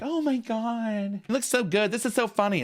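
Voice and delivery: high, gushing fake compliments; fake-nice friend. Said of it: "To their face, they're like".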